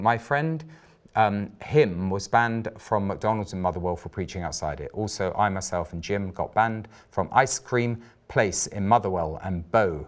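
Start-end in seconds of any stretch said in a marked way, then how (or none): none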